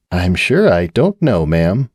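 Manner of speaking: level, slow, calm male voice; bartender speaking evenly. Acted. Bartender answering Cupcake evenly and slowly. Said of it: "the bartender said evenly".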